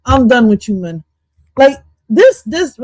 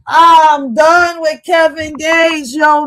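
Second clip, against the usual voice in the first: slow, louder shout, drawn out; exasperated shout; 4 semitones higher, 5 dB louder, slower than usual. Real, not acted. Giving up on a rapper's song, a slow exasperated shout. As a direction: throw your hands up, fed up.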